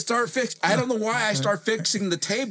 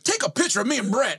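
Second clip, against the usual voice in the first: higher, quicker offhand order through a laugh; mock trainer; 6 semitones higher, faster than usual. Trainer asking his student to take a photo, quick and amused. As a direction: toss off the request, amused. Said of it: "he goes".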